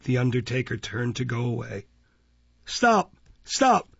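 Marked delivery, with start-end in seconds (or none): 2.7-3.9 high loud stage whisper. A narrator's reading. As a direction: hiss it urgently. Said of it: "in a loud whisper".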